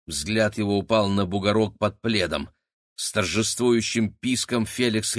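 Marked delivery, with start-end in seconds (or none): none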